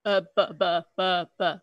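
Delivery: imitated stammer, low, like buffering; Obama. Comic stalling before the punchline, mock presidential buffering. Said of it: "that's him buffering".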